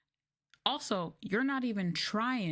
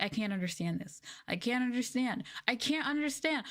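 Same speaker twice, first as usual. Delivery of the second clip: student whine climbing higher each time; mounting whine; 6 semitones higher than usual. Retold or imitated. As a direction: start plain and whine higher and higher. Student complaining, rising each time.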